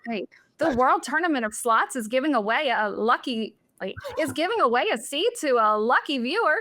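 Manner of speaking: polished news anchor read; newscaster voice. Shown as a demonstration. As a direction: read it like the six o'clock news. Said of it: "Can you do the newscaster voice now".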